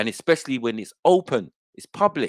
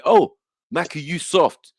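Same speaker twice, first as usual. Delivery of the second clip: mock taunt; 5 semitones higher, 4 dB louder, slower than usual. Shown as a demonstration. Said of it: "like, I could just say".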